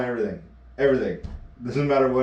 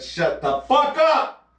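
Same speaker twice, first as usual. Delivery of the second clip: much higher, slow, laughing retort; mock angry snap; 13 semitones higher, 4 dB louder, slower than usual. Emma shutting him up, mock annoyance. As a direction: drag it out, fed up. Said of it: "That's what she says".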